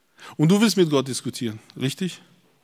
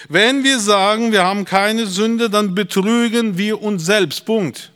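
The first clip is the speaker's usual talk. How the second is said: slow, higher-pitched preacher's declaration; emphatic scripture declamation; 5 semitones higher, 4 dB louder, slower than usual. Acted. Preacher reads congregation the verse on self-deception, emphatic declamation. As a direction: declaim the verse as final, drawing out key words.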